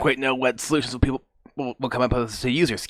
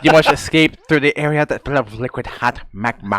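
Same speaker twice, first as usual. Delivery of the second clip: movie quote; 6 dB louder than usual. Retold or imitated. Quoting movie line jokingly.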